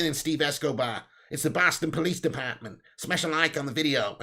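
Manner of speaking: put-on a rough stab at a Boston accent; lightly put-on Boston cop voice. Streamer trying a police line for viewers, Boston accent. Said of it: "I mean, uh, the Boston accent".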